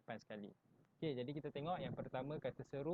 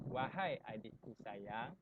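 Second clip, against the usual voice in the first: tender; slower than usual. Shown as a demonstration. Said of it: "perasaan sayang atau merayu".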